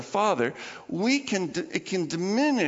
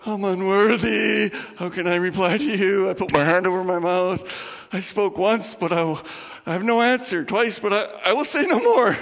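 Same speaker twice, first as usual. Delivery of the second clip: louder, rising, pleading Job; humbled Job; 2 semitones higher, 4 dB louder than usual. Retold or imitated. Job answering the Lord, louder and rising. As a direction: plead in awe. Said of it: "And Job answered the Lord".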